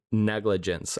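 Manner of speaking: "negligence" sounded out carefully, syllable by syllable; deliberate, measured "negligence" from someone who trips on it; slow, careful. Shown as a demonstration. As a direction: take care over each syllable of "negligence". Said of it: "I have to say it slowly".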